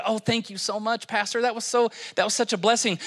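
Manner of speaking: softly voiced, mock-grateful churchgoer; a hint of a thankful parishioner. Mimics grateful churchgoer to pastor.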